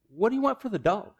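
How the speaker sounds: high, fast, astonished voice; amazed buyer. Retold or imitated. Buyer asks the owner the price, high and amazed. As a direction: squeak it out in disbelief.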